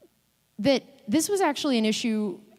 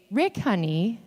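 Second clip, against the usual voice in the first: measured, pointed pet name as a summons; mom's bug-alert tone; slower than usual. Retold or imitated. Mom calling her husband to kill a bug, pointed summons. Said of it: "I know that tone of voice".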